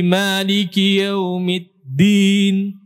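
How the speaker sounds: slow recitation of "yaumiddin" as "yaumitdin"; dal weakened to ta. Shown as a demonstration. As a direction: chant it with the first d slipping into t. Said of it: "dalnya berubah menjadi ta".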